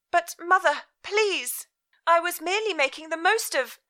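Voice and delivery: put-on high, startled young woman; bewildered daughter. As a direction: ask in alarmed confusion. Elizabeth's voice in story.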